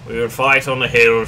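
put-on hammy British wartime-speech accent; terrible British accent. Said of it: "sorry for my terrible accent".

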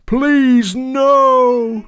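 high loud plea; crying out. Acted. Cows plead against the song, loud and high. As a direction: beg them to stop. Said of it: "cried the cows".

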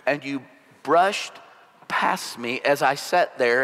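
slow, lost and puzzled; a hint of confused hurt; lightly voiced wife, slow and bewildered. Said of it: "she sounds kind of bewildered".

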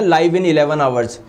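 each word drawn out slowly; slow, spelled-out reading. Shown as a demonstration. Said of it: "तो ये तो लिखा आएगा".

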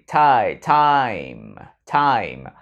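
time with a full ai glide; time with clear ai. Shown as a demonstration. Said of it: "âm I giữa nha". (đọc time với âm ai rõ)

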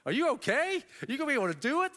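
high-pitched imitation of a wife's questioning; mock interrogation, pitched well up; wife grilling him. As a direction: fire rising questions like a worried, insistent wife. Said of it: "my wife's, like, grilling me".

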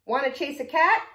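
high, loud storybook dog; dog's invitation. A narrator's reading. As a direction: ask eagerly as the dog. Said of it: "barked the dog".

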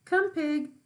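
a farmer coaxing a pig with slops; calling the pig. Acted.

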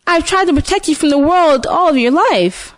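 lightly voiced witch. A narrator's reading.

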